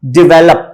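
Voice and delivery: "डेवलप" as di-VEL-up; short i first in "डेवलप"; correct pronunciation. Shown as a demonstration. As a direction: stress the middle of "डेवलप". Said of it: "डेवलप होता है".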